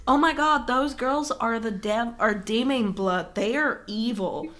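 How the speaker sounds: put-on slow, drawn-out quote of scandalized girls; mock pious girls. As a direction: stretch each accusation, imitating shocked churchgoers. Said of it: "But they were like".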